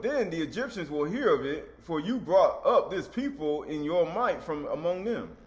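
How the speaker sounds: emphatic, measured scripture reading; preacher declaiming a verse slowly. Acted. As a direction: read the verse out firmly, drawing out key words. Reads scripture aloud to congregation.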